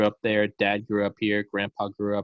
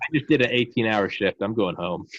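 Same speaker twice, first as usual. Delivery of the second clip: weary doctor; 3 semitones higher, 3 dB louder than usual. Retold or imitated. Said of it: "The doctor goes".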